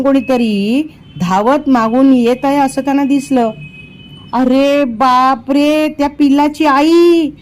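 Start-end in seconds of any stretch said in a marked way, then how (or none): 4.3-7.3 slow, dragged-out cry of alarm, higher at the end; frightened exclamation. A narrator's reading. Vijay sees the angry mother bear coming: alarmed cry. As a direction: gasp it out as the mother bear appears. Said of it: "विजय भीतीने उद्गारला".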